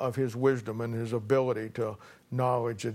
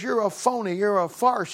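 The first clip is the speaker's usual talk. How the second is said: accusing; 7 semitones higher, 3 dB louder than usual. Retold or imitated. Kid accusing the old man.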